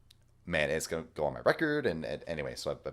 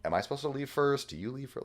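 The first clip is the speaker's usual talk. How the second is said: confused, high; 8 semitones higher than usual. Retold or imitated. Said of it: "I'm sitting there like".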